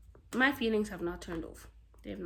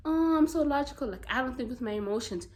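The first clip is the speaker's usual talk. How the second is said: mock logical person; 4 semitones higher, faster than usual. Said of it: "some people that are like".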